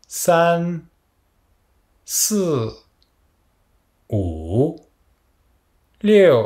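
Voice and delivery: each number spoken alone with its Mandarin tone; counting with tones. Shown as a demonstration. Teacher counts for students to repeat, each tone clear. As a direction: model each digit slowly with a pause after it. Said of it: "Donc répétez après moi".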